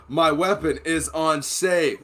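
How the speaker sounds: slow, deliberate mock announcement; joking announcement. Making jokes on the pistol range, slow announcement. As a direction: spell it out word by word as a joke. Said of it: "I'm making jokes".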